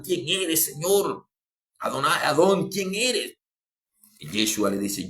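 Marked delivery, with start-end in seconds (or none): 0.0-3.4 súplica llorosa imitada, en tono agudo; llanto imitado. Retold or imitated. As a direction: imita a quien clama llorando, con la voz más alta. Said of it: "y llorando". (lloroso fingido, agudo)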